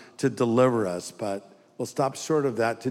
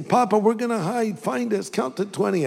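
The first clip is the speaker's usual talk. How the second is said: higher, lightly voiced little grandkid; imitating a small child; 6 semitones higher than usual. Grandkids telling grandpa to count, lightly imitated child. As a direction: chirp it like an eager small child.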